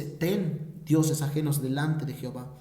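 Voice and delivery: low sly enemy twisting the commandment. Acted. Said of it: "El enemigo te dice".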